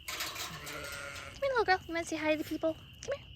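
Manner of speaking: high sing-song coo to a pet. Real, not acted. Owner coaxing her ewe Patches over, high cooing.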